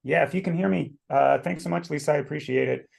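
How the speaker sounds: talking around a cough drop; cough drop in mouth. Real, not acted. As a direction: speak with a lozenge in your mouth. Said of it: "having a cough drop in my mouth while I'm speaking".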